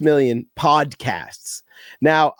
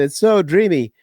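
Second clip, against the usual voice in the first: imitated swooning girls; 3 semitones higher than usual. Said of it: "girls are like".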